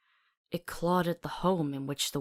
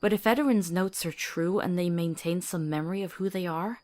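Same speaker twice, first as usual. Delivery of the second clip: earnest pleading; 3 semitones higher than usual. Acted. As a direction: push her case, rising towards help her. Pleading to spare the child.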